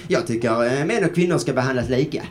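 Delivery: lightly put-on silly voice. Shown as a demonstration. Comedian testing an opinion at home, lightly silly voice. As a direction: test it out in a mildly goofy voice. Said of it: "säga den med fånig röst".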